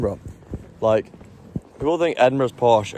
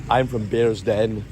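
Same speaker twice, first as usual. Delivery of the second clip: slower, drawn-out posh Bearsden accent; slower than usual. Shown as a demonstration. Showing how locals name their home, Bearsden accent. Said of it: "they say".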